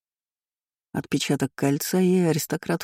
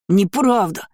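put-on high, loud child's wail; bawling denial; 6 semitones higher, 4 dB louder, slower than usual. A narrator's reading. Spoiled boy caught lying, bawling loud denial. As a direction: howl it like a spoiled brat. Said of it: "заревел Лайер".

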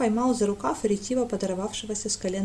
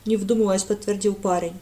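usual speaking voice

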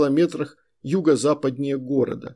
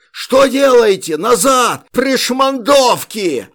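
high, slow furious shouting; frantic retreat order; 9 semitones higher, 8 dB louder, slower than usual. A narrator's reading. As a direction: roar them back, drawn out. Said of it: "орал Иван Соболь". (отчаянный приказ отступать)

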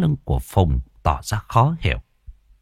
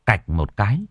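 usual speaking voice

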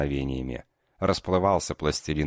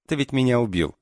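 higher, scoffing quip; snorting retort; 8 semitones higher, 3 dB louder than usual. Acted. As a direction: toss it back with a snort. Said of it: "фыркнула она".

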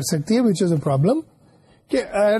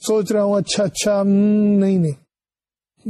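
mock pretending to think. Teacher mimics a student pretending to recall, lightly hammed-up. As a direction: play someone faking that they almost know the answer. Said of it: "pretend کرے کہ جی مجھے فلاں سوال کا جواب آتا ہے".

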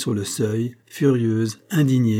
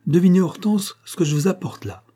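higher, genial invitation to guess; good-natured; 8 semitones higher than usual. A narrator's reading. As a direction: playfully tease a surprise, pitched up. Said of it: "de son ton bon enfant". (ton bon enfant, enjoué et plus aigu)

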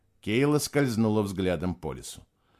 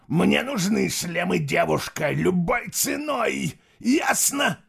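rising to shout; 5 semitones higher than usual. Acted. Emperor demands.

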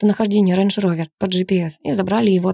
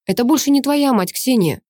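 ordinary delivery, nothing marked

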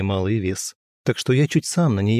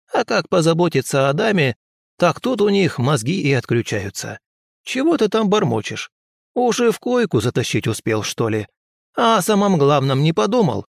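higher crone voice, needling; nagging old woman; 6 semitones higher than usual. Acted. Old healer grills the young man. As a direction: needle him like a nosy granny.

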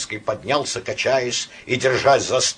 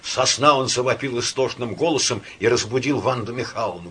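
ordinary delivery, nothing marked

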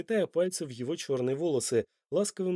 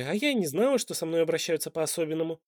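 ironic exclamation; 3 semitones higher than usual. Acted. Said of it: "иронично воскликнула Топси".

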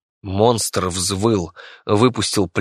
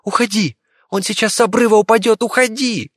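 urgent warning shout; 13 semitones higher than usual. Acted. Viki warns her rat the monster is falling, urgent high shout. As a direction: yell to get him off in time.

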